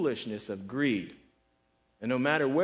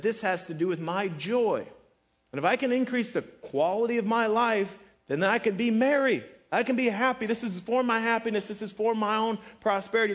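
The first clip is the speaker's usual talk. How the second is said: higher, louder voicing of his selfish creed; self-centered rich man; 7 semitones higher, 4 dB louder than usual. Preacher voicing the rich man's philosophy of joy, pitched high and loud.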